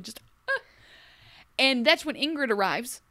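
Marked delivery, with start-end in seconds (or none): 0.0-0.6 a dainty fading ah; demure sigh. Retold or imitated. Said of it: "like, demure".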